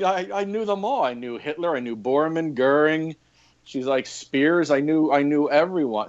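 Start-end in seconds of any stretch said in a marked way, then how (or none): 0.0-3.1 a light imitation of an old German lady's accent, pitched higher; proudly name-drop in a lightly put-on German accent. Old German lady boasting to the EMT that she knew them all, mild German accent. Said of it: "forgive my horrible accent". 4.1-6.1 a light imitation of an old German lady's accent, pitched higher; proudly name-drop in a lightly put-on German accent. Old German lady boasting to the EMT that she knew them all, mild German accent. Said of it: "forgive my horrible accent".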